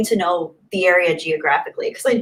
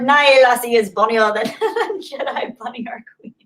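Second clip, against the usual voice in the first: badly faked Irish accent, breaking into laughter; attempted Irish accent; 2 semitones higher than usual. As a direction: try an Irish lilt and crack up. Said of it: "I wish I could do an Irish accent".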